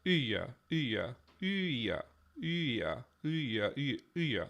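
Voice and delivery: "Iya" repeated with a y-glide into the final vowel; glide between vowels. Shown as a demonstration. Testing a sound change, "Iya" said with a glide. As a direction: say "Iya" as a long i sliding into "ya". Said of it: "like, a glide".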